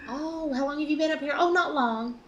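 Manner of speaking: put-on Southern accent. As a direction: ham up a Southern accent for the cop. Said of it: "biggest Southern accent".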